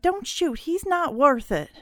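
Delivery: high, urgent cry held back in volume; shouted plea. Acted. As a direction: plead in a high, contained shout. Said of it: "she shouted".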